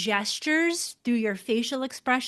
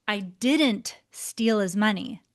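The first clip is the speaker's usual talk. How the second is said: "didn't" ditekankan, turun di akhir; stress on didn't. Shown as a demonstration. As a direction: tekan kata "didn't" dan tutup dengan nada turun. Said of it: "you can see how the same words deliver a very different message".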